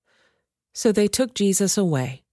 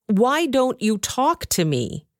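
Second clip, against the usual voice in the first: higher, slow, pressing question; demanding; 6 semitones higher, slower than usual. Acted. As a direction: lean on him for an answer, drawing it out. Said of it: "Pilate demanded".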